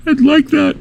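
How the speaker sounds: very high, choked-up squeak; mock tearful reply. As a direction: squeeze it out as if about to bawl. Acting out tearful film reply.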